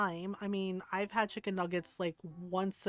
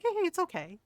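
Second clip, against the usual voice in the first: high-pitched retold reassurance; reassuring; 9 semitones higher than usual. Ron reassures the embarrassed friend, reassuring. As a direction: soothe a flustered friend, pitched up.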